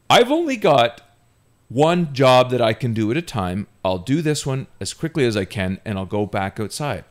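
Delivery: loud, high outburst easing off toward the end; heated retort. Retold or imitated. Teenage dishwasher answering his scolding boss, heated. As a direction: fire back heatedly, then rein it in. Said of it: "I didn't say it the way I just said it here".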